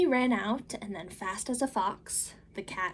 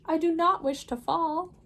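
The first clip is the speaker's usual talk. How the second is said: much higher, louder, anxious little fish; fretful fish; 7 semitones higher, 6 dB louder than usual. Acted. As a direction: squeal out the protest as a fish. Fish protests.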